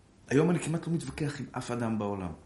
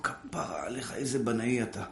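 mother's praise; 3 semitones lower, 6 dB quieter than usual. Retold or imitated. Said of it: "הייתה אומרת לו".

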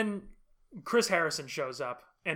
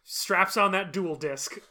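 mock-epic narration; slower than usual. Mock-epic anime duel narration.

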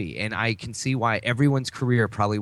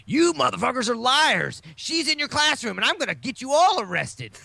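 higher, manic mock rant; Nicolas Cage impression; 10 semitones higher than usual. Retelling the film, he mimics a raving Cage much higher. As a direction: play an unhinged cop accusing everyone. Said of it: "He's going".

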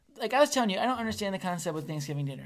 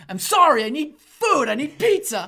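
louder, pleading half-laughing apology; mock apology; 6 semitones higher, 9 dB louder than usual. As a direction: beg for pizza, laughing through it. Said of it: "you're like".

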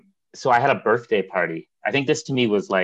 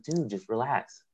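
imitated slow, soft brush-off; dismissive chill; 2 semitones higher, 7 dB quieter, slower than usual. Friend answering a plea to leave, dismissive.

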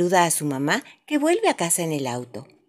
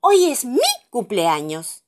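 cartoon princess; 5 semitones higher, 5 dB louder, slower than usual. A narrator's reading. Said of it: "dijo la princesa más pequeña".

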